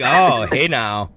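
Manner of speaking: smug approval. Retold or imitated. S1 to Leanne, taking the phone, slowly pleased. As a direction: savor it like a prize.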